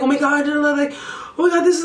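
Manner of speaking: high, loud, panicky oh my God; freaking out. Retold or imitated. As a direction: spiral into disbelief. Freaking out on the train.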